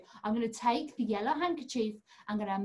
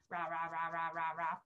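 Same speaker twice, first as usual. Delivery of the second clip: dinosaur roar; 8 semitones lower, 7 dB quieter than usual. Pretend. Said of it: "A dinosaur friend for Rory".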